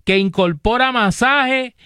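measured sponsor pitch with prices; steady promotional announcer delivery; radio ad read. Real, not acted. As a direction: sell it like a live radio host.

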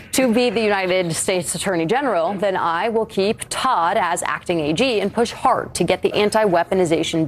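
lively, emphatic read-aloud of a post; interpretive reading. Retold or imitated. Anchor reads Trump's post to the panel, interpretive reading. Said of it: "my interpretive reading of Trump's".

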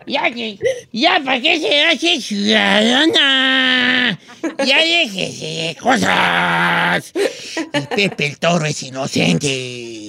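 put-on slurred slow drunk man. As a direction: play a tipsy old drunk. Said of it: "Estoy imitando a un borrachito".

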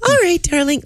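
lightly voiced sunny cartoon mom; a hint of a cheery Disney mother. Shown as a demonstration. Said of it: "Disney voice for, like, a mom".

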